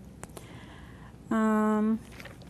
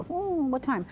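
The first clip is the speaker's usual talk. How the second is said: Hmm, what time said lightly and higher; casual question; 6 semitones higher than usual. Shown as a demonstration. Teacher showing the natural way to ask what time. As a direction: toss it off with an easy hmm. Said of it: "you're just gonna go".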